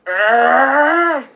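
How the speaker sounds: loud, high drawn-out "ah"; mock yell. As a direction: roar it like a raging racer. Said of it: "Guy Gagné is like".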